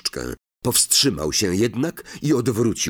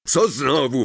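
growl; 4 semitones higher than usual. Acted. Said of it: "warknął pan Malfoy".

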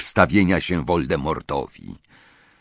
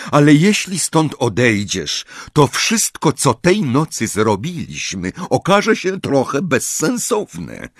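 a hint of a patient father, a little higher; lightly voiced calm father; 9 semitones higher than usual. Mr Weasley calmly talks Harry out of leaving, lightly voiced. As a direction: gently reason with the boy as a father.

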